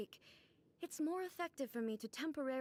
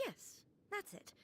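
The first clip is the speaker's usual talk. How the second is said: muttered to herself; 8 semitones higher, 5 dB quieter than usual. Acted. Convincing herself, muttered aside.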